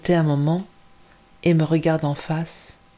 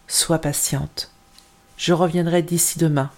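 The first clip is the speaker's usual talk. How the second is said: gentle reassurance. Acted. Mother soothing frightened child.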